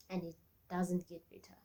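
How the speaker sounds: real whisper, resigned; whispered admission of defeat. Real, not acted. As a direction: breathe it out in a whisper. Admitting the treatments failed.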